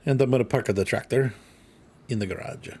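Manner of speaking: light mock Italian lilt; put-on Italian accent. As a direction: slip playfully into an Italian accent. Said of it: "I don't know why I'm Italian all of a sudden".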